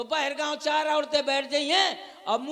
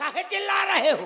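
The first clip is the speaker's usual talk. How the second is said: mock cross, irritated, angry snap; 4 semitones higher than usual. Acting out a future reply to the child calling papa, an angry snap. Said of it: "बड़ी गुस्सा में बोला करूंगा".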